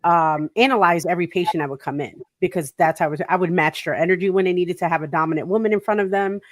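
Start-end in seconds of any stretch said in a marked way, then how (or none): none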